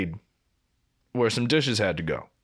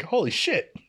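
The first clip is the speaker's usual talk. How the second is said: high, laughing disbelief; amazed, laughing; 11 semitones higher than usual. Retold or imitated. Coworkers stunned he vanished, laughing and high. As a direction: gasp it out through a laugh, much higher. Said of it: "we'd all just be like".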